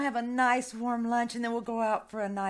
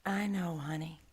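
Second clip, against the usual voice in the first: whisper; 6 semitones lower, 4 dB quieter than usual. Acted. Nanny softly comforting.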